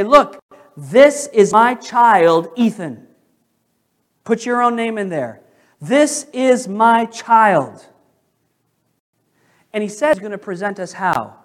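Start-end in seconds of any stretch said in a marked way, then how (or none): 0.0-3.1 slow, louder proud proclamation; Jesus presenting. Acted. Jesus presenting a believer to God, slow proud proclamation. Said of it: "Jesus is going to say". 5.8-7.9 slow, louder proud proclamation; Jesus presenting. Acted. Jesus presenting a believer to God, slow proud proclamation. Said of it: "Jesus is going to say".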